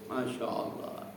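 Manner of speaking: slow whispered masya allah. Acted. Preacher whispers about pilgrims finishing the Quran. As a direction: hush it out slowly in wonder.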